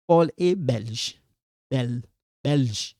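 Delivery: "belge" with the l sounded, broken down as bel, belge; pronounced L. Shown as a demonstration. Teacher breaking down the word, audible L. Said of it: "it sound belge".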